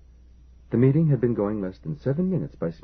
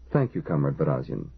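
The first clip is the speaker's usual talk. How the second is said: dry, lower thanks with no warmth; 4 semitones lower than usual. Acted. The chairman dryly thanks the chief engineer for the tea, lower and dry. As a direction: thank him dryly, a touch put out. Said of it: "Istvili said dryly".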